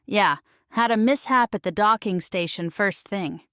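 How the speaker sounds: a touch of defensiveness, lightly voiced; slightly defensive. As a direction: justify yourself a little. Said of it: "voice tinged with a touch of defensiveness".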